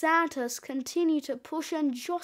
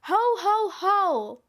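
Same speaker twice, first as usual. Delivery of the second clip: louder, higher belly-laugh ho-ho-ho; hearty Santa chortle; jolly Santa; 4 semitones higher, 4 dB louder than usual. Acted. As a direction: boom out ho-ho-ho like Father Christmas. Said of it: "patting their bellies and saying".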